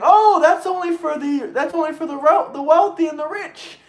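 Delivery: hammed-up high whine; mock whiny complaint. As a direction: whine it like a sneering critic. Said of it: "you start screaming".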